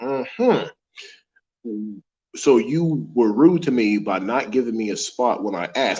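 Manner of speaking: normal talking voice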